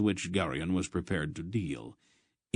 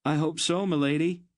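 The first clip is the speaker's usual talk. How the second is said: much higher and louder call back; calling over shoulder; 10 semitones higher, 5 dB louder than usual. A narrator's reading. Geryon answering the countess as he leaves, called out. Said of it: "replied back over his shoulder".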